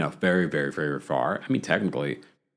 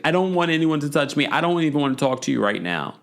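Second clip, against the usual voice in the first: quick, higher-pitched imitation of brushing someone off; retold upset rebuff; 5 semitones higher, faster than usual. Commentator quoting a housewife who refuses comfort, mock upset.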